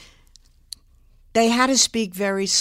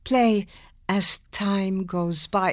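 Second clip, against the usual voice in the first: slow, soft Bergman line; hushed, slow Casablanca reading; Ingrid Bergman; 3 dB quieter, slower than usual. Shown as a demonstration. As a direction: read it like a careful learner, rolled R on Rick. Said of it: "It's like they're reading".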